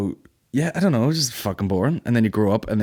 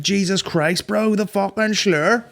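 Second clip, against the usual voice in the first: mock shock; 11 semitones higher, much slower than usual. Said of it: "And I was like".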